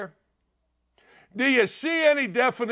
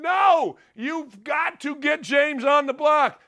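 retold yell; 4 semitones higher, slower than usual. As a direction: yell it at the screen in frustration. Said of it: "I'm sitting there going".

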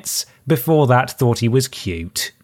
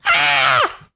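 short startled scream. Acted. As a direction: cry out as the claws land. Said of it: "The woman screamed".

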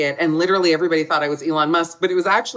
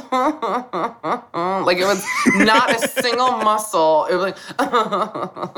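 laughing; 3 semitones higher, much slower than usual. Real, not acted. Laughing about Cindy's frozen face.

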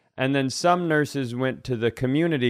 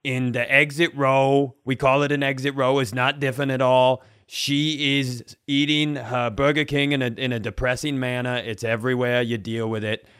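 mock flight announcement. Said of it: "just like personal announcements".

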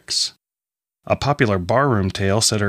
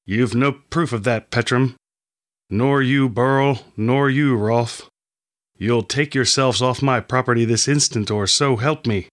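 restrained fury, jaw locked tight; through clenched teeth; 3 semitones higher than usual. Acted. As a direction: force each name out through shut teeth. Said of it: "he said through clenched teeth".

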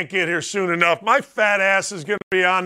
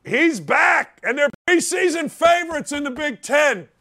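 hype shout; 6 semitones higher than usual. Real, not acted. Hyping the returning player.

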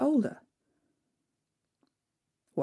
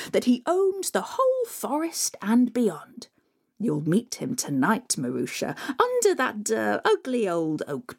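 sly stepmother. Acted. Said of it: "said the stepmother".

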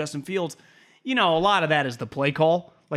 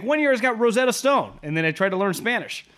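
quoting Fitzpatrick; 7 semitones higher than usual. Retold or imitated. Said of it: "He's like".

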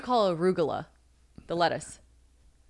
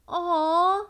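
high, drawn-out "aw"; retold touched reaction; 10 semitones higher than usual. Girlfriend recalling seeing the trip photos, touched coo. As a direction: coo over old photos, high-pitched.

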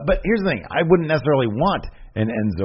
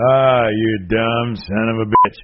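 slow Stone Cold imitation; slower than usual. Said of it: "I said it twice".

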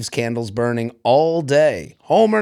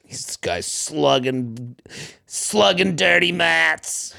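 put-on Boston accent; 4 dB quieter, slower than usual. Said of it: "Such a Boston way to describe that".

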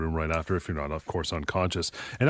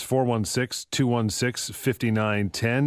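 slow number read; slower than usual. Real, not acted. Host repeating phone number.

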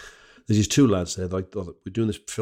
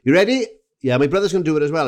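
loud, raised Valleys Welsh voice; eager Pontypridd lad, pitched up; Pontypridd-Merthyr accent; 5 semitones higher, 7 dB louder, faster than usual. Retold or imitated. Fan readies everyone for the pint race, in Pontypridd accent. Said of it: "I'll do him as Pontypridd".

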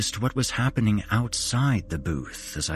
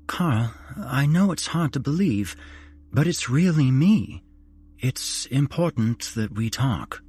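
sad ghostly mother; 6 semitones higher than usual. A narrator's reading. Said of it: "an awful sadness in her voice".

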